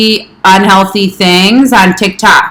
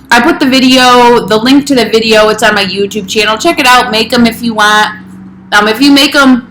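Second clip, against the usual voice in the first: talking with a mouth full; chewing while speaking. Real, not acted. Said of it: "I'm talking with my mouth full".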